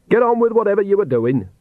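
brisk sharp rebuke. A narrator's reading. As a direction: snap it out sternly. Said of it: "she said sharply".

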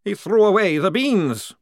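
high, loud wailing despair; despairing vampire. Acted. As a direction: wail it to the heavens. Maledict despairing.

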